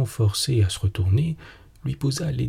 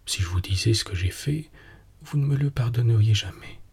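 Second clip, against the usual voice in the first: anguished murmur. Acted. Husband dreading his wife's reaction, in an understated anguished murmur. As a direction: murmur it, torn by guilt, understated. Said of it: "Il murmura, déchiré par le remords et torturé d'angoisse".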